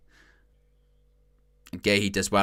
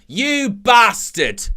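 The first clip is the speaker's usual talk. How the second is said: mock outrage; 11 semitones higher, 5 dB louder, much slower than usual.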